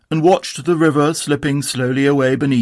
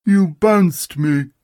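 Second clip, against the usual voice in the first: slow, mild gruffness; gruff Eeyore; 5 semitones higher, much slower than usual. Acted. Eeyore accuses Tigger, slow and gruff. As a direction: say it slow and gruff like a grumpy donkey. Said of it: "said Eeyore gruffly".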